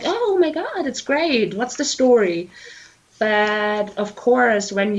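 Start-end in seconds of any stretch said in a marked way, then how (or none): 0.0-2.5 excited fan. Retold or imitated. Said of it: "they're like".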